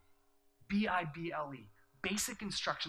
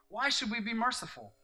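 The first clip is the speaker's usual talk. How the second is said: emphatic repeat; 8 semitones higher, 6 dB louder than usual. Acted. Pastor pressing the congregation with the question, emphatic. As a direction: question repeated higher and louder.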